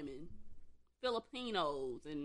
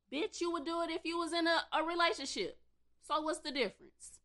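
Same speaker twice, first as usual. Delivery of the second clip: mad outburst; 6 semitones higher than usual. Real, not acted. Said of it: "Sorry, I'm just mad".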